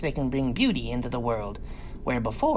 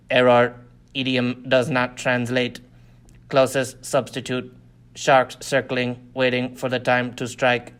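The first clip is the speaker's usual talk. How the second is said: flat mechanical translator voice, a touch louder; machine translator voice; 2 semitones lower, 4 dB louder than usual. Acted. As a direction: read it like a device announcing an error. Translator device speaking.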